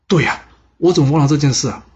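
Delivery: the father suddenly remembers the pardon token; sudden realization. Acted. (韦履成恍然大悟惊呼)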